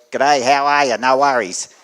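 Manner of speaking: a lightly hammed-up broad Australian greeting. Australian speaker joking to conference audience, mock broad Australian. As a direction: play up the Australian accent for a laugh. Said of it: "talk like a real Australian".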